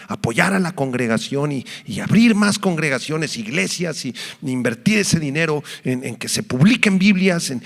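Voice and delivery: a believer growing fervent as he pledges his wealth; voicing a believer. Believer telling his pastor he will give his inheritance to God, rising fervour.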